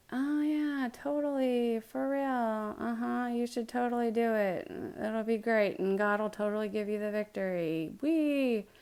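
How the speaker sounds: sarcastic, fake-cheerful agreement. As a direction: lay the fake enthusiasm on thick. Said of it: "he's being sarcastic and lying".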